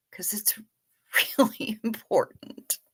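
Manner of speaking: breathy laughing whisper. Real, not acted. Streamer whispering the punchline to chat, half laughing. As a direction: drop to a whisper mid-laugh. Private aside after crude joke.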